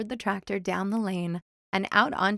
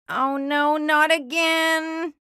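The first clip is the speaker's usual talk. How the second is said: higher, loud, slow groan; dismayed Otis; 7 semitones higher, 6 dB louder, slower than usual. A narrator's reading. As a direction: dread it. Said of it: "what he thought was".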